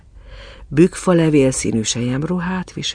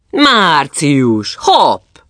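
high, loud, sudden call; brisk hailing cry; shouting at someone; 3 semitones higher, 7 dB louder, much slower than usual. A narrator's reading. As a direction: startle him with a lively shout. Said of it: "kiáltott rá a negyedik".

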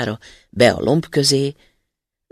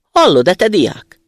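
loud, slow booming call, higher; thundering giant spirit; 5 semitones higher, 9 dB louder than usual. A narrator's reading. Huge spirit thunders at the student: booming, slow, loud. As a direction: boom it out like a towering spirit. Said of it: "dörrent rá rettenetes hangon".

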